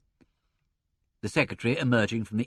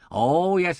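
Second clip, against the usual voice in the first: high, loud scornful rebuttal; contradicting; 7 semitones higher, 6 dB louder than usual. A narrator's reading. Inspector overruling the secretary, contradicting. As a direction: flatly contradict him.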